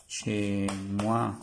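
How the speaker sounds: "Che moi" whispered, no voice. Shown as a demonstration. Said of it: "Cuando decimos che moi". ("chez moi" susurrado)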